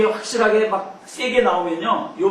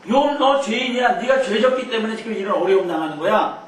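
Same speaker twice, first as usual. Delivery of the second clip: accusing; 4 semitones higher, 4 dB louder than usual. Acted. Friends accusing Job.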